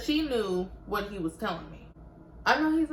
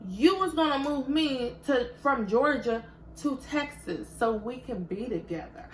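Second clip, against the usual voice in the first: indignant, raised voice throwing his promise back; angry retort; 6 semitones higher than usual. Retold or imitated. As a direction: replay the fight at full heat. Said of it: "I was like".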